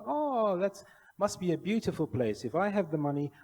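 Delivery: high swooping "oh", easing down gradually; retold gushing admiration. Janitor flatters the visitor from Malaysia, high and gushing. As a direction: imitate an impressed, gushing janitor.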